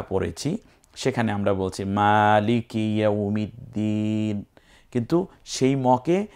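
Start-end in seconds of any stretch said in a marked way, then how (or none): 1.8-4.4 মালিকি recited with a long maa; stretched first vowel. Shown as a demonstration. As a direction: draw out the মা, then the final দিন. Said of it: "টান আছে আর এখানে টান নাই". (মা টেনে তিলাওয়াত)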